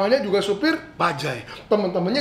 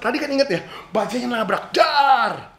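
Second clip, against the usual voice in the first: recalling crash; 4 semitones higher than usual. Acted.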